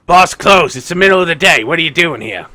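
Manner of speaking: loud, challenging doorman voice; gatekeeper. Acted. Guard stopping visitors outside the alehouse, loud challenge. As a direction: bark it at unexpected visitors. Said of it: "someone, like, comes up in front of you".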